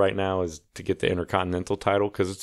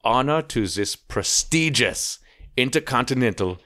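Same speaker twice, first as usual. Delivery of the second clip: mock Gunther wrestler voice; 2 semitones higher than usual. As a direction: lightly mimic the champion's German-ish announcement. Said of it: "He doesn't sound anything like that".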